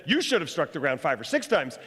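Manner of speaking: a touch of prophetic anger; angry man of God. A narrator's reading. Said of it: "The man of God was angry with him".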